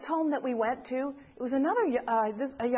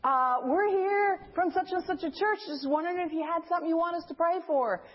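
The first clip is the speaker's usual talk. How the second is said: put-on higher-pitched young visitor; imitated little guy; 4 semitones higher than usual. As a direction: play the little guy making his polite request. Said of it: "he's a little guy".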